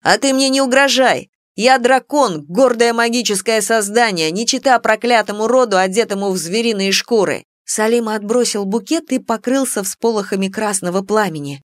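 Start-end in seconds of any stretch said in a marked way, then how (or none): 0.0-7.5 proud outburst. Acted. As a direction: roar your pride back at him. Dragon rages at werewolf.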